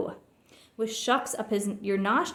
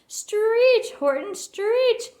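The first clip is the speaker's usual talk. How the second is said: much higher, louder, slow yell; 12 semitones higher, 5 dB louder, much slower than usual. A narrator's reading. Quuggerbug urging Horton again, a high loud slow yell. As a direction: push harder, full shout. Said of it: "yelled the bug".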